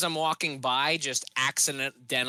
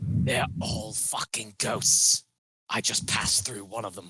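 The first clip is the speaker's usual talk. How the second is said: hushed whisper, much lower; 4 semitones lower than usual. Retelling what he said to a freaked-out companion: whispering. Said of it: "whisper this information to the group".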